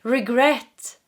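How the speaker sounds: slow, drawn-out grumble; grumbling regret. Retold or imitated. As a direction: groan it out with regret. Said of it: "this person is like".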